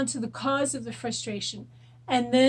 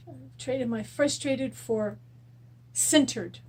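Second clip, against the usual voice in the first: slow demo; slower than usual. Shown as a demonstration. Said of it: "I'm going to use".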